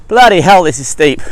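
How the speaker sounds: startled and loud, blurting it out; real shock at a steep slope; surprised exclamation. Real, not acted.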